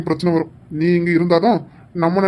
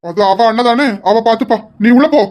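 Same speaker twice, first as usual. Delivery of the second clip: firm, louder command; stern order; 2 semitones higher, 4 dB louder than usual. Acted. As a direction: insist she goes inside. Brother repeats order to go inside. (கண்டிப்பான கட்டளை)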